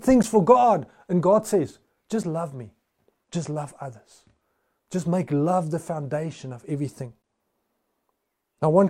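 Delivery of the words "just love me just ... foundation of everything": soft, calm, much quieter answer; God quietly answering Henny; gentle voice of God. Acted. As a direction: speak it softly, like a patient God. God speaks to the congregation.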